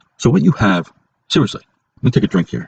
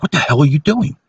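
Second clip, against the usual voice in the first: higher-pitched mock of Corey scolding; imitating angry coworker; 6 semitones higher than usual. Retelling how coworker Corey snapped at him, mock indignant. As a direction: play the coworker catching him in the act.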